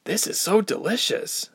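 savoring each word, a lightly voiced girl; mild relish, stretched so. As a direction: Ilse munching fruit, a touch of relish. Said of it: "Ilse said with relish".

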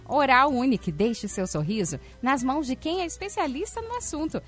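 upbeat radio ad read; hard sell ad. Acted. Reads sponsor ads on air.

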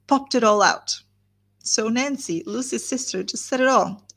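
reading a novel's gossiping speech aloud; audiobook-style reading of a long speech; story reading. Acted. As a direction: read it like a chatty old gossip, unhurried. Reads Mrs Jennings' speech aloud.

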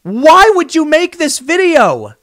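high, slow, incredulous question; exasperated disbelief. Real, not acted. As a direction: ask it like you truly can't fathom it. Reacting to screaming woman's video.

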